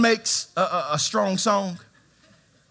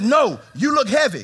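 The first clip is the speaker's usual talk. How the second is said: louder, higher firm insistence; strong insistent stranger; 5 semitones higher, 4 dB louder than usual. Retold or imitated. Stranger on the plane insisting, strong voice. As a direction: press it like a pushy stranger. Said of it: "he's very strong talking like this".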